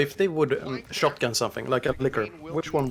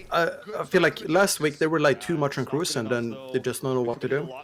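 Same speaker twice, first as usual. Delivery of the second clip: talking through burning noodles; mouth full of hot food. Real, not acted. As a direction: speak around a hot mouthful. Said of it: "my mouth is on fire from the noodles".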